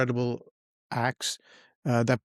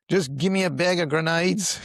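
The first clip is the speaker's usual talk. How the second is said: put-on New Zealand accent; 4 semitones higher than usual. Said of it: "Was that your New Zealand accent?".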